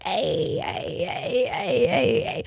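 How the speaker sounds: put-on high shrieky party-girl hey hey; mock drunk girl cheer. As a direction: imitate a wasted girl yelling at the stage. Girl cheering wildly at concert.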